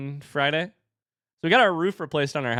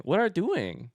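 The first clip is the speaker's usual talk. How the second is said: toddler imitation; 5 semitones higher, slower than usual. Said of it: "as if it is an observation".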